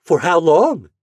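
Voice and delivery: mother pressing for details; eager question. Acted. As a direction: ask quickly, keen to know. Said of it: "she asked eagerly".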